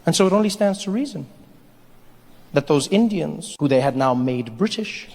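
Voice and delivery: measured storyteller with long pauses; mock-solemn narration. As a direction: intone it like a grand history tale. Narrates history between sketches.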